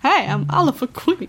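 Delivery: lightly voiced sassy drag queen; a hint of a grand Edwardian drag queen. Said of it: "an Edwardian drag queen".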